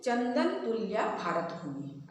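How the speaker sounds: slow, measured reading of चंदन तुल्या भारत भूमि; teacher slowly modelling चंदन तुल्या भारत भूमि; demonstrated verse reading. Shown as a demonstration. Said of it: "कैसे पढ़ेंगे, देखिए".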